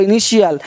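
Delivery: इनिशियल with sh for the t. Shown as a demonstration. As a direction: say इनिशियल as i-ni-shi-yal. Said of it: "इस टी को श पर".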